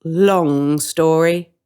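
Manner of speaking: drawn-out dark hint; a hint of menace; ominous witch. Witch evading darkly.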